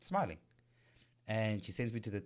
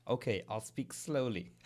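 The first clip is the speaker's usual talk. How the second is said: slow, spaced-out imitation of a caller; slow it down as if for a foreigner; imitated slow talk; speaking slowly; 3 semitones lower, 4 dB quieter, slower than usual. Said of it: "she just started speaking really slowly".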